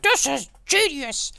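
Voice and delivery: slow, very high mock exclamation; imagined amazement. Onlooker marvelling at cronuts, hammed-up amazement. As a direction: shoot the pitch up in hammed-up awe. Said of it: "and yet you're like".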